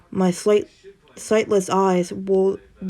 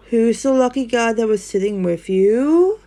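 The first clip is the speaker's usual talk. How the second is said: higher, louder playful tease; teasing; 4 semitones higher, 5 dB louder than usual. Acted. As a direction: nudge her about the guy. Friend teasing about a date.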